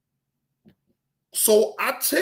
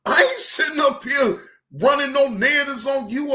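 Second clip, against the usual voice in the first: retold outburst; 3 semitones higher than usual. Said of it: "I'm like".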